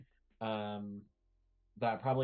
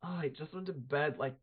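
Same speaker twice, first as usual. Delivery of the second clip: irritated; 5 semitones higher than usual. Acted. Woken after two hours sleep.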